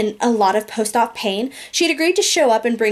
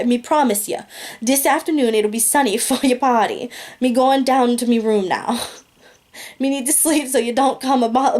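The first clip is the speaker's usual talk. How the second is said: Jamaican patois. Retold or imitated. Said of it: "that's kind of how it's written".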